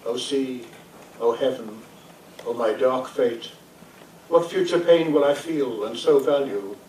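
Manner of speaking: measured, declaimed sonnet with pauses between phrases; poem reading. Acted. Poet reads a lament for a drowned beloved, solemn recitation.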